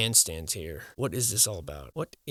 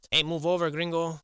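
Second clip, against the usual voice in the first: higher, louder shout at the fat guy; gruff worker voice; 7 semitones higher, 3 dB louder than usual. Pretend. Worker telling the fat guy to move, higher shout. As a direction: shove him out of the shot verbally.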